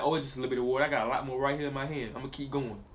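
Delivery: low, soft, shrugging it off; mock carefree. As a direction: brush it off like it's nothing. Carefree answer to spilled drop.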